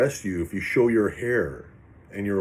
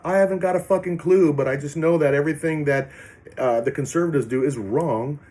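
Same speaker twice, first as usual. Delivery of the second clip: mock clueless protester; 4 semitones higher than usual.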